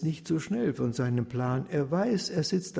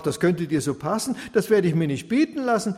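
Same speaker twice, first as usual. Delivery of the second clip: defiant widow; 3 semitones higher, 6 dB louder than usual. Acted. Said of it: "Sie sprach".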